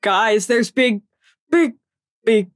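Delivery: slow, fading, eerie repetition of big; hushed slow horror-movie warning; spooky slow warning. Pretend. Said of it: "repeats the spooky line slower".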